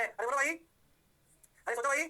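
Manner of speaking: loud rising call to the class. Real, not acted. Teacher rousing the class again, loud rising call. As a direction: rouse the students, rising on भाई.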